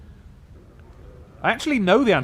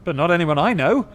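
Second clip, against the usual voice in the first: frowning dustman; 4 semitones higher, 4 dB louder than usual. Acted. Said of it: "he frowns".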